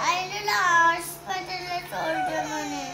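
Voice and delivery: crying. Real, not acted. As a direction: push the words out through tears. Child crying while answering mother. (ఏడుస్తూ గట్టిగా చెప్పడం)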